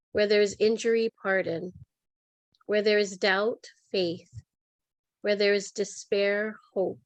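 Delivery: measured, reverent reading of a prayer; calm, evenly paced devotional delivery; prayer recitation. Real, not acted. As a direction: pause before each answering word, like a litany. Recites Saint Francis's peace prayer.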